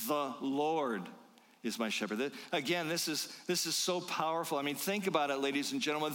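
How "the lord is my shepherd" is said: "Lord" given the main weight, the rest lighter; stress on Lord. Shown as a demonstration. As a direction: lean on the word "Lord". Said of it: "notice the second word in the verse".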